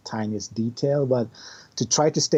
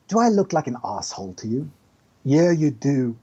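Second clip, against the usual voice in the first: British dude. Retold or imitated. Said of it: "the British dude comes up and says".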